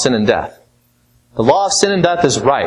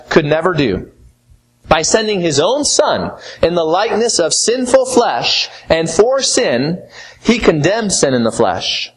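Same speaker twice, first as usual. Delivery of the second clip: scripture reading. Acted. Reads Romans 8 aloud.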